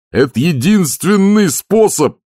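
high, loud, slow desperate yell. A narrator's reading. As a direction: shout it over the storm. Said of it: "заорал Дженкинс". (шкипер орёт Ваймсу, громко и отчаянно)

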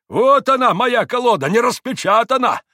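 high, loud exclamation; loud, indignant crowing; triumphant exposure. A narrator's reading. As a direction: shout the proof for all to hear. Landlord triumphantly proves the cheat.

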